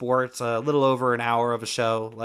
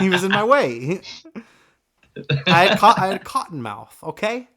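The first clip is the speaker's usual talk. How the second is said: mock excuse; 6 semitones higher, 4 dB louder than usual. Mock defense of spitter.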